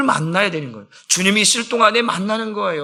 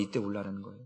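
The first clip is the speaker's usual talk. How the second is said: much softer, lower repeat of 울라라는; quiet, lower echo of 울라라는; hushed echo; 10 semitones lower, 20 dB quieter, faster than usual. Real, not acted. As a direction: let the repeat of 이때 울라라는 fall to a near whisper.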